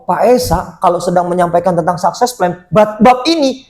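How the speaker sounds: normal talking voice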